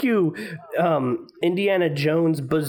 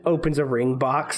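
usual speaking voice

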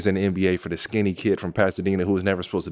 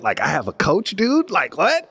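much higher, squeaky what-the-heck; baffled disbelief; 8 semitones higher than usual. Retold or imitated. Told on the phone he has a head coach, baffled. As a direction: thrown by suddenly having a coach.

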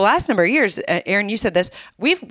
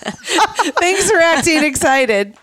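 sarcastic; 12 semitones higher, 4 dB louder, much slower than usual. Real, not acted. Teasing her cohost.

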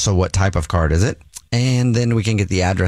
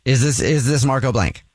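upbeat prize-call voice; bubbly promo announcer; announcing big news; 2 semitones higher than usual. Acted. Fake prize call to husband.

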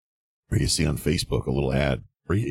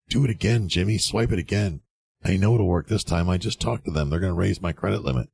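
higher, pleading mock voice of a broke buyer; mock desperate buyer; 3 semitones higher than usual. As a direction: play the guy begging the card to go through. Desperate buyer begging at card swipe.

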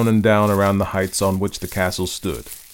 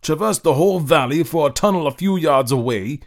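higher, protesting disbelief; incredulous; 8 semitones higher than usual. Acted. Toza protesting to Paolo in higher incredulous tone. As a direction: still reeling at the plan. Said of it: "cried Toza in amazement".

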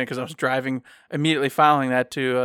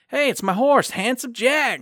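1 retold clown call; 8 semitones higher, slower than usual. Clown calling out his horse.

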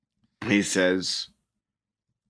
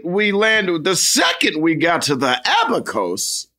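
recap voice; 5 semitones higher than usual. Retold or imitated. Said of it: "Was that your impression of me?".

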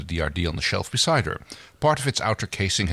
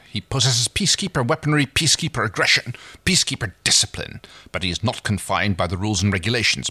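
Crace, pitched higher, proud and persuasive; lightly voiced scheming captain, raised pitch; 3 semitones higher than usual. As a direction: reader lifts her voice for Crace's pitch. Reads Crace's dialogue in raised voice.

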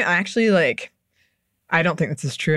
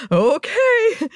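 doubtful okay; 13 semitones higher than usual. Retold or imitated. Retold doubtful reply to tree worker.

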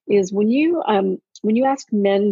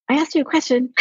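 higher-pitched mock demand; demanding wife; 6 semitones higher than usual. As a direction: pester a husband who hasn't answered. Acting out nagging her husband.

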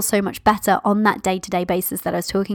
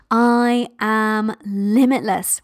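energetic roar; much slower than usual. Shown as a demonstration. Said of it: "just feel the energy of that".

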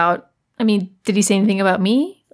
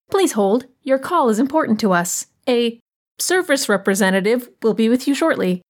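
phone menu voice. Acted. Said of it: "recited hold message".

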